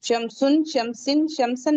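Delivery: शमसुन, शमसिन, शमसन with full case endings; wrong forms. Shown as a demonstration. Teacher listing the wrong readings to class. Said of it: "नहीं पढ़ेंगे".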